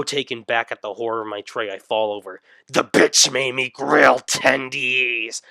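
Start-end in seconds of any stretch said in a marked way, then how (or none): 2.7-5.4 outraged whine. Acted. Outraged at tray.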